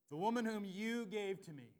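slow, loud blaming; accusing. Acted. Adam blaming God for the woman, loud and accusing. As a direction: point the finger slowly.

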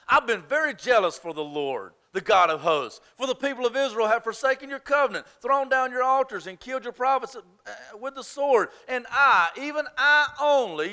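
Elijah's lament, pressing hard on "I"; double emphasis. Retold or imitated. Preacher acting Elijah's complaint to God, pressing on "I". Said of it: "you see that double emphasis?".

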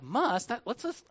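mock indignant listener. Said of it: "To which you're like".

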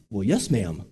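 imitating a hesitant suitor; unconvincing reply. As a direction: answer timidly, without conviction. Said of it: "You gotta say it like you mean it".

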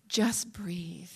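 soft whispered "Just breathe."; whispered breath. Acted. Preacher voicing God's gentle command, whispered. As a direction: breathe the words out in a hush.

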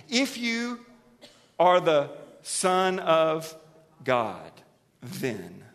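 preacher voicing Satan's slow taunt to Jesus. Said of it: "what's his lead line?".

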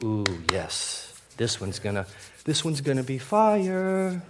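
imitating your own eager anticipation; eager excitement. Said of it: "I'll get excited and eager".

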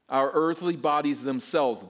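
themselves underlined, earthly leaned on; stress on themselves. Shown as a demonstration. Preacher stressing the word themselves. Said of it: "underline that word".

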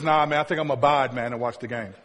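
quick, offhand refusal trailing down low; mock casual buddy. Buddy turning down friends to watch the game, mock casual. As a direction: beg off casually, sinking in pitch and volume. Acts out buddy declining with 'abide'.

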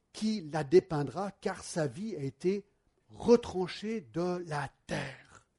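measured, solemn Bible reading; scripture reading. Acted. Reads a Bible passage aloud.

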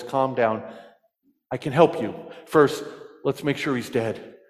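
low, calm, reassuring operator; soothing voice. Retold or imitated. Operator calming a panicked hunter, soothing and low. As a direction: soothe the panicked caller gently. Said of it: "the operator says in a soothing voice".

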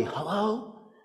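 put-on very soft child's hello, rising; timid tiny voice answering the phone; soft little boy. A little boy answers the pastor's call, soft and shy. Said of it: "said rather softly".

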